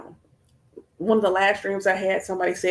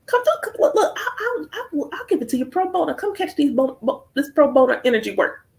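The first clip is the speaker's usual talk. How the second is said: much higher, louder, laughing taunt; taunting challenge; 12 semitones higher, 6 dB louder than usual. Retold or imitated. Daring the stubborn man to come cry, laughing and much higher. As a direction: goad him with mock bravado, higher and louder.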